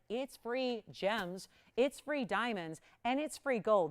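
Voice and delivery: slow, spaced-out "free" in each phrase, easing up in pace; stress on free. Real, not acted. Host sells the gems as giveaways, stressing "free". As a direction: lean on "free" every time, unhurried. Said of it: "I emphasize the word free".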